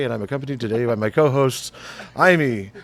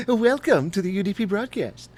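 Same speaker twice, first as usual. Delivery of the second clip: evil villain voice; 8 semitones higher than usual. Pretend. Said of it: "like a nineties evil villain".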